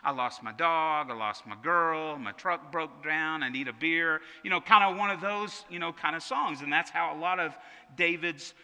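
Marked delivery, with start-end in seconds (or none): 0.0-4.2 country song parody. Retold or imitated. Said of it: "They sound like a country music song".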